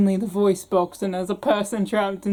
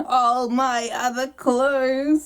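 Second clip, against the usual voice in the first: sing-song little doll, drawn out; talking doll voice; 3 semitones higher, much slower than usual. Acted. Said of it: "this voice for the doll".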